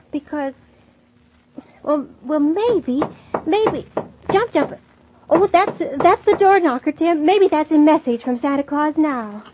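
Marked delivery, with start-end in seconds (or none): 3.5-9.4 startled excitement. Acted. Knocker startles Mary.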